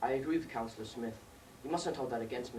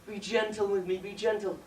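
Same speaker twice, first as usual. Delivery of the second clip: lightly voiced pleading girl; 6 semitones higher, 6 dB louder than usual. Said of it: "her voice may seem somewhat husky".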